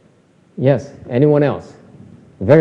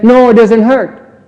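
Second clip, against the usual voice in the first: higher, slow, pretend-brave 'No, it doesn't hurt'; mock denial; 6 semitones higher, 6 dB louder, slower than usual. Teacher imitating a hit student's denial, slow and higher. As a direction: play the student insisting it doesn't hurt. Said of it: "and then he says".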